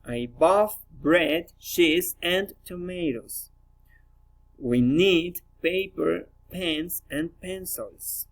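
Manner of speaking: slow opening, lift each item, close on "tomatoes" and "pencils"; rising list intonation. Shown as a demonstration. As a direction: list "bread, cheese" and "paper, pens" with lifts on the items. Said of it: "rising intonation".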